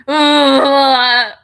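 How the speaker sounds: quoting Livy. Retold or imitated. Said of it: "Livy just said".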